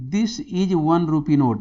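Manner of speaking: stretched-out question reading; slow reading. Shown as a demonstration. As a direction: read each word out slowly for the class. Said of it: "right wrong pick करना है".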